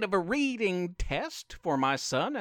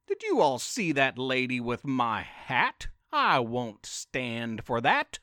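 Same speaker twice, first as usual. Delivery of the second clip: a hint of an indignant cow; mooing cow; 5 semitones lower than usual. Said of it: "mooed the cow".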